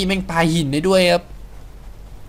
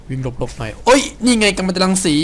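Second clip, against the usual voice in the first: ordinary talk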